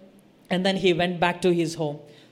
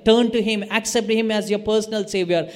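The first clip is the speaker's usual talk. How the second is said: retold shouting. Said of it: "And I will start shouting it".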